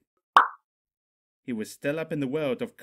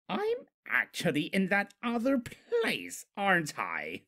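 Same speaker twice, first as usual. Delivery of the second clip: high, slow dawning dread; dawning realization; 8 semitones higher than usual. Acted. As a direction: realise it slowly. Discord realises he's in hell.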